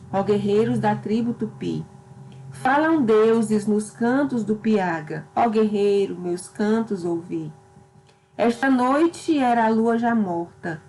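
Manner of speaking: measured, declaimed reading of the verses; poem recitation. Acted. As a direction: recite it like an Indianist epic. Teacher recites Gonçalves Dias poem.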